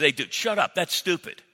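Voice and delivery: a hint of a gruff buddy telling him off; mock-scold like a straight-talking friend; blunt friend. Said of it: "your godly friend looks at you and says".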